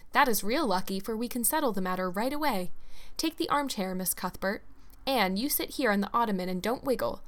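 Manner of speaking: a lightly voiced brisk, fussy hostess, eager; busy, chattering hostess herding her guests; bustling hostess. Hostess ushering guests into the parlor, lightly voiced brisk and fussy.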